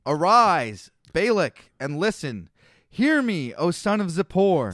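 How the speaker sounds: declaimed scripture command; uttered oracle. A narrator's reading. Prophet delivers his oracle to Balak, proclaimed. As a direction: read it out as a measured proclamation. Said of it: "he uttered his oracle".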